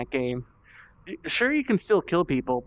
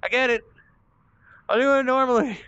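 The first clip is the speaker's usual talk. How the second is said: exasperated loud; 9 semitones higher, 4 dB louder, faster than usual. Real, not acted. Frustrated concession.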